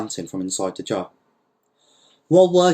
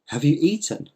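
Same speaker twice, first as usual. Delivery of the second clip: concerned, higher-pitched question; attentive; 5 semitones higher than usual. Acted. Don Lol to his prisoner in the jar, attentive. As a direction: ask with polite concern. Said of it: "he asked attentively".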